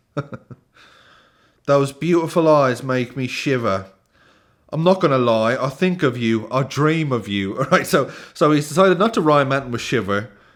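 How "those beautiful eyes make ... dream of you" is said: put-on higher-pitched generic British accent. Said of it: "I'm just gonna do generic British accent".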